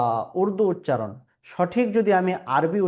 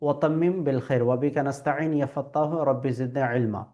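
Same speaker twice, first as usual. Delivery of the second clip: dua recitation; 2 semitones lower than usual. Shown as a demonstration. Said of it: "এইটা আমরা পড়ার চেষ্টা করব".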